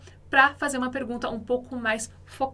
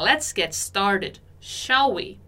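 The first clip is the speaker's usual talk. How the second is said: slow model reading; 3 semitones lower, much slower than usual. Shown as a demonstration. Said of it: "quando ela fala".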